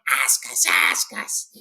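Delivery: harsh, insistent creature whisper; Gollum. A narrator's reading. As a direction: press the demand in a forceful hiss. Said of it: "Gollum is sitting there going".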